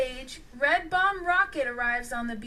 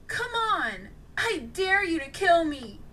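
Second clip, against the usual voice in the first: wry; 6 semitones higher, 4 dB louder than usual. A narrator's reading. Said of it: "with a wry smile".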